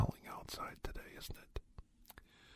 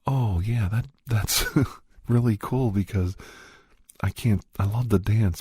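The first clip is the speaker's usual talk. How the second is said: acted dance partner; 3 semitones higher, 4 dB louder than usual. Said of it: "she might say something back like".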